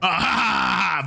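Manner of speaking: teacher mocking a student's joke; sarcastic fake laugh. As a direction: laugh it off sarcastically, not amused.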